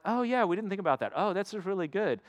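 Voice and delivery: lightly voiced delighted followers; eager disciples. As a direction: gush with growing excitement. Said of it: "And they're like".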